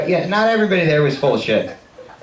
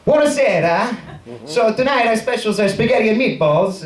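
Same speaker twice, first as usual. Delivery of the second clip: put-on higher, horribly overdone Italian accent; over-the-top Italian accent; 6 semitones higher than usual. Waiter pitching tonight's specials to the first table, over-the-top Italian accent. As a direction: lay on a hammy fake Italian accent. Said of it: "over the top horrible".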